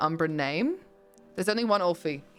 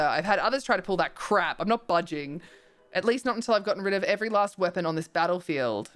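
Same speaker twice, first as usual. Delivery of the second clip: irritable fast rant; faster than usual. Acted. Echo creature rants fast.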